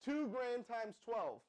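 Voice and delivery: "Two grand times twelve" said very slowly, each word spaced out; slow, spelled-out. Shown as a demonstration. Host coaxing slow viewers, each word slowed and spaced. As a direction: drag it out so the chat can do the sum. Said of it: "Come on, smart people".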